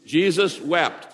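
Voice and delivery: "Jesus wept" slow and emphatic; recited verse. Shown as a demonstration. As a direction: call out "Jesus wept" slowly for the room. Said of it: "And what is John eleven thirty-five?".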